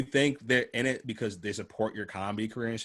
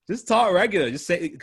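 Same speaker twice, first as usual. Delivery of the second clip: exasperated urging; 9 semitones higher, 8 dB louder than usual. Real, not acted.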